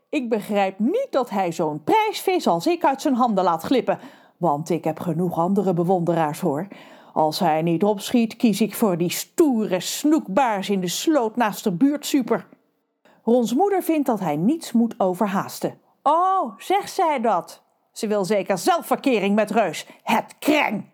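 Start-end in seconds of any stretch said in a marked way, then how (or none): 0.1-12.5 a lovesick fish complaining to the narrator; lovesick fish Trudy. Acted. Trudy continues. 16.0-20.8 high indignant fish; huffy jealousy at the mother; jealous Trudy. Acted.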